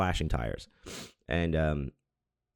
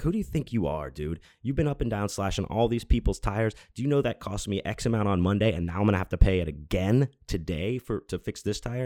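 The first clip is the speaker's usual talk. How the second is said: higher-pitched indignant scolding, not shouted; retold confrontation; 3 semitones higher than usual. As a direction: imitate getting in someone's face. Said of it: "I really got on his face".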